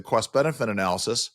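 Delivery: cost benefit analysis with a New York "cawst"; New York accent. Real, not acted. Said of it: "There's my New York accent coming out".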